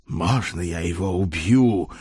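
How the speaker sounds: lightly voiced old knight begging; a hint of imploring old servant; pleading old crusader. A narrator's reading. Old crusader begs his lord's leave to kill, lightly pleading. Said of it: "взмолился старый крестоносец".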